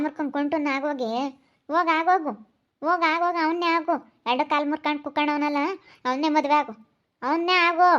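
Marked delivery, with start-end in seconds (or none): 1.7-6.7 angry scolding. Acted. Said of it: "ಎಷ್ಟು ಜೋರ ಮಾತಾಡುತ್ತಪ್ಪ". 7.2-7.9 ಅವನ್ನೇ ಆಗು snapped out louder, ಆಗು hit hard; mother yelling at her daughter to marry him; loud angry jab. Acted. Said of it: "ಎಷ್ಟು ಜೋರ ಮಾತಾಡುತ್ತಪ್ಪ".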